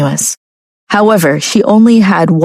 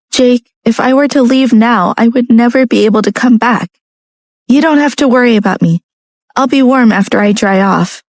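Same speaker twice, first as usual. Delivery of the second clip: put-on higher, pleading young woman; 5 semitones higher than usual. A narrator's reading. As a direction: plead gently, voice lifted. Narrator voicing Lucia.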